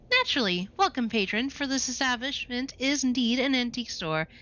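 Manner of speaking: a hint of a prim, formal shopkeeper; lightly voiced haughty proprietress. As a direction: play the stiff old-fashioned storekeeper. Antique store proprietress speaks.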